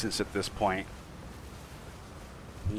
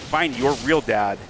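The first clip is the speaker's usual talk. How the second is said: raging gamer; 3 semitones higher than usual. Real, not acted. Trash talking enemy.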